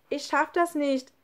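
high, daunted call; von unten gerufen. A narrator's reading. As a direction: call up that you can't. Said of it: "rief Lukas von unten". (verzagt nach oben gerufen)

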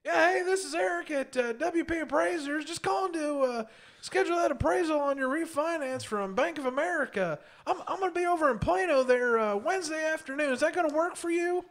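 over-the-top loud phone persona, pitched far up; loud obnoxious voice. Retold or imitated. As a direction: boom a fake-friendly hello down the phone, way up high. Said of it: "in my most, like, loud, obnoxious voice".

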